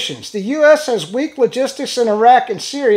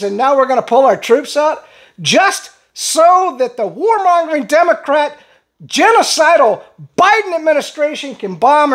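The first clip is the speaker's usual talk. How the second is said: fired up; 3 semitones higher than usual. Real, not acted. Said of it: "I'm sorry I get so fired up".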